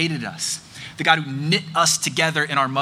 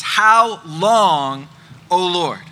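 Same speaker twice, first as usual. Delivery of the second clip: pleading cry; 4 dB louder, much slower than usual. Retold or imitated. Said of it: "rapid-fire rhetorical questions".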